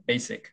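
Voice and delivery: 베이식 dropping from 베이 down to 식; falling stress. Shown as a demonstration. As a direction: let 식 fall away in 베이식. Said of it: "이렇게 떨어져야 돼요".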